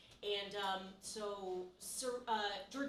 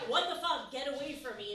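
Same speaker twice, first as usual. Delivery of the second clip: mock outraged yell; 3 semitones higher, 7 dB louder than usual. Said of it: "Serena's like".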